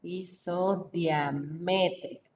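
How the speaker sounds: "Isodiamétrica" said slowly, syllable by syllable; slow careful dictation. Shown as a demonstration. Teacher dictating a new word to class, slow and deliberate. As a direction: spell out "Isodiamétrica" slowly for the students. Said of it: "Con acento en la E".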